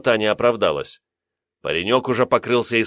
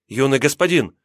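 calling out; 4 semitones higher than usual. Acted. Servant calls to fallen master.

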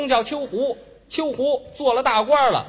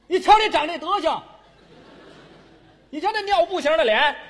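mock scolding lecture; 4 semitones higher than usual. Mock scolding partner onstage.

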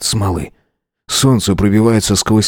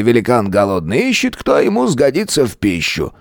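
grandfather voice; 3 semitones higher than usual. Acted.

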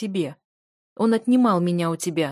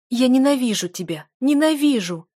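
high, loud and rising on the repeat; hateful scream; 6 semitones higher, 7 dB louder than usual. A narrator's reading. Wife screaming hatred at her husband, rising. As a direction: spit out the hatred.

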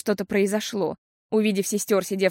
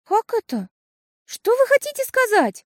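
put-on shocked girl; 14 semitones higher, 5 dB louder than usual. A narrator's reading.

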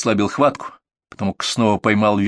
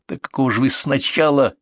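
a touch of anger, cut short; mild angry start; 4 semitones higher than usual. Acted. Partner begins to scold the wife, lightly angry. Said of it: "гневно начал Серёга".

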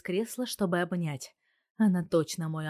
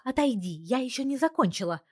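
higher, mildly irritated grumble; grumbling; 7 semitones higher than usual. A narrator's reading. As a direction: brush him off, busy and annoyed. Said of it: "ворчит она". (ворчливо, с лёгким раздражением)

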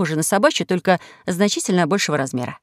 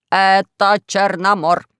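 shouting; 4 dB louder, much slower than usual. Acted. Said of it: "закричал Поля".

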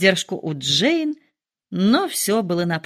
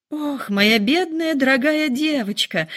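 slow, much higher lament; pitying exclaim; 6 semitones higher than usual. Acted. Mother lamenting over daughter, slow and higher. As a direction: wail over the poor girl, drawn out. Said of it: "воскликнула миссис Беннет".

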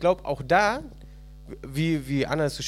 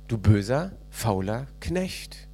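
lower, very slow stern master; stern master's rebuke; 6 semitones lower, slower than usual. Acted. Preacher voices the master condemning the lazy servant, lower and very slow. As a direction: drag out each word like a verdict.

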